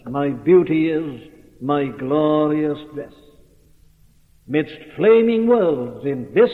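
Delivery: slow, measured recital of verse; hymn recitation. Acted. Preacher quotes the hymn just sung to his congregation, slow recitation. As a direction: recite it slowly, weighing each phrase.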